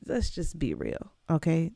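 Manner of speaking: Dej Love voice. Acted. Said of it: "In my Dej Love voice".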